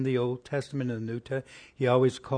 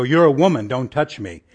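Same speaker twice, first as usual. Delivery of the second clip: louder, a mock snooty push-away; hammed-up prim refusal; mock Jesus recoiling from a woman; mock haughty rebuff; 7 dB louder than usual. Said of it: "He didn't say".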